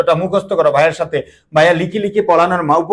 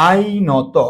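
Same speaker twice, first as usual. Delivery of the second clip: with dignity; much slower than usual. Shown as a demonstration. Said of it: "খুবই আভিজাত্যের সহিত বলবা".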